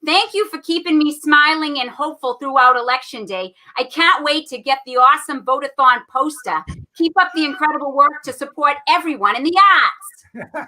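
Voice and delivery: put-on lightly Boston-accented reading. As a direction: read it with a hint of Boston. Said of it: "I'm gonna read this with a Boston accent".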